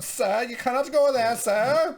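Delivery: high, loud mock guard shouting; passive-aggressive guard. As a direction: call out an officious warning, hammed-up. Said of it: "They're very, uh, passive-aggressive guards".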